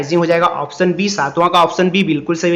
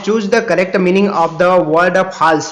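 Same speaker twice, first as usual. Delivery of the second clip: slow read-aloud; much slower than usual. Shown as a demonstration. Reads question.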